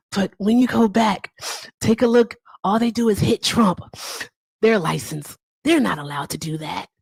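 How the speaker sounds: lightly voiced presidential impression; a hint of his halting, punchy phrasing; Donald Trump. Trump complaining about late night TV shows, light impression. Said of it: "That is my Trump impression".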